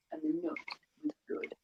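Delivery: soft, fading storybook close; gentle hushed story ending. A narrator's reading. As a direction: let the story settle quietly.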